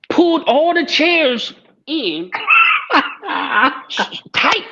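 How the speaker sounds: laughing through the words; cracking up while telling it; loud laughing retelling. Real, not acted.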